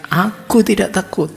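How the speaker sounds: frightened student yelling at a rattling door; defiant yell. Retold or imitated. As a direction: shout it to prove you aren't scared, half amused. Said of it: "sambil teriak".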